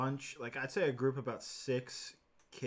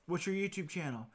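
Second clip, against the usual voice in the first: imitated pestering kids; 6 semitones higher than usual. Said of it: "they would always come up and ask".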